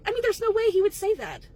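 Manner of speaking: can you believe this; indignant venting. Acted.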